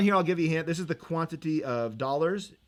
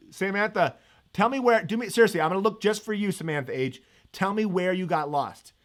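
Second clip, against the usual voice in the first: eager plea; 3 semitones higher, 4 dB louder than usual. Real, not acted. Pleading to a student.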